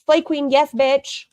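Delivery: high-pitched mimicry of a put-on Black accent; mock her Black American accent, pitched well up; imitated Black accent. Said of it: "she said it in black accent".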